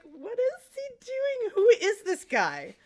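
high, drawn-out incredulous question; utterly confused, stretched-out wail; exaggerated bafflement. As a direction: ask it in mock bewilderment. Voicing own bafflement at the actor.

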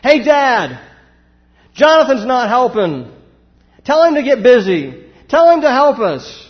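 put-on high, loud child calling out to dad; tattling kid. Daughter calls to Dad to make her brother help, high loud whine. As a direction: tattle on your little brother at full volume. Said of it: "It would work out something like this".

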